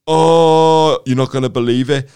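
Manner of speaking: high and loud, then slowing for the big reveal; excited kid. Retold or imitated. Schoolboy spilling the shocking secret, high and eager. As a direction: lean in conspiratorially like a thrilled schoolboy.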